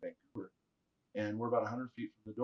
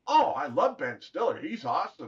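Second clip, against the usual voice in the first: raised, louder, drawn-out gush; gushing fan; 4 semitones higher, 8 dB louder than usual. Retold or imitated. Storyteller acting out his reply about Ben Stiller, gushing. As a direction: play up the enthusiasm, stretching it out.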